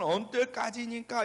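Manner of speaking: slow, stretched cry of complaint; imitated lament. David pouring out complaint to God, slow imitated lament. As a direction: draw out David's plaintive question. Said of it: "이런 탄식으로 깊은 원망을".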